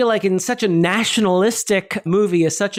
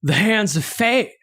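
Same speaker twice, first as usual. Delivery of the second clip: Keanu Reeves; 2 semitones higher than usual. Pretend. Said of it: "it's turning into Keanu Reeves".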